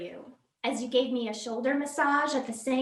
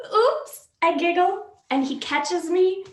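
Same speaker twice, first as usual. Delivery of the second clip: giggly dream excitement; 4 semitones higher, 6 dB louder than usual. Acted. Dream of Rob on beach.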